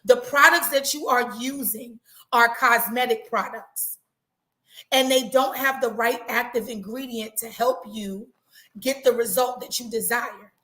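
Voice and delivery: each word laid out slowly and clearly; said again slowly. Shown as a demonstration. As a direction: repeat it slow so it sinks in. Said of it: "I'm gonna say that again slow".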